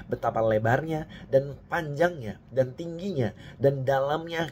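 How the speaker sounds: measured, solemn Bible reading voice; lifting each clause of the prayer to the congregation; scripture reading. Acted. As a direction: read the passage as if from the pulpit. Reads scripture aloud in service.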